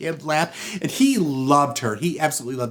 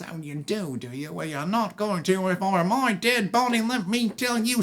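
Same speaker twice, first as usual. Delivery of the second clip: agitated rant climbing much higher; indignant husband; 7 semitones higher than usual. Acted. Husband answering the rival who loves his wife, indignant.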